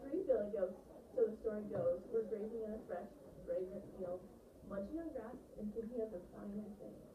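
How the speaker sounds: put-on lively storyteller reading to children; expressive read-aloud. Shown as a demonstration. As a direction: read with full voice and shaped phrases. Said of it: "think about voice as I read this".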